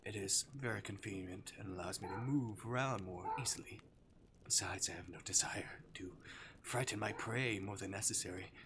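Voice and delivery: lightly voiced demon toying with prey; teasing Arctic demon. Demon to his captive human, playfully menacing.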